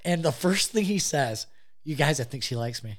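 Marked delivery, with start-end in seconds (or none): 1.8-3.0 quoting him while cracking up; laughing through the quote. Retold or imitated. Laughing while quoting the smitten friend. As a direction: giggle through his smitten line.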